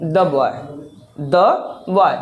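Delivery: put-on "the" then "boy" said slowly and apart; the boy spelled out. Shown as a demonstration. Teacher breaks up "the boy" for the class, slow and separate. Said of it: "वहाँ पे क्या लगाएंगे".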